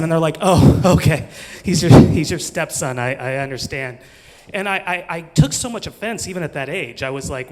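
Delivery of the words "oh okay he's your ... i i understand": mock understanding. People mocking, pretending to understand.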